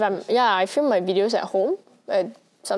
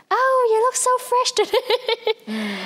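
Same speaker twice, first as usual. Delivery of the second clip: high, slow mock compliment; 14 semitones higher, slower than usual. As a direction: coo it like a gushing friend. Quoting people's compliment.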